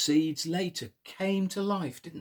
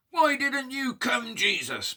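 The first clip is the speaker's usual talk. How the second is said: angry; 10 semitones higher than usual. Shown as a demonstration. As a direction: show the children an angry Mary. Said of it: "Probably like that".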